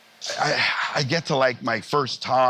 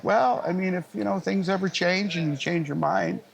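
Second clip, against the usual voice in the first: higher, mock fatherly offer; playing the dad, half-teasing and generous; 8 semitones higher than usual. Dad offers son to buy a sound system, mock fatherly.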